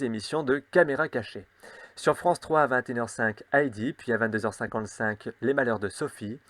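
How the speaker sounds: ordinary talk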